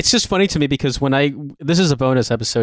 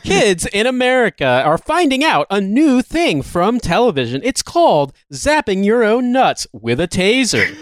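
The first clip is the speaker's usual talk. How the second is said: high, hammed-up TV anchor; news anchor voice; 6 semitones higher than usual. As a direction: announce it like breaking local news. Mock TV news report.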